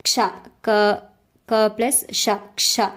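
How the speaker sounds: "Ksha" as Ka blended straight into Sha; Ka before Sha. Shown as a demonstration. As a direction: split "Ksha" into Ka and Sha, then join them. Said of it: "Ka pronunciation comes first and then Sha comes".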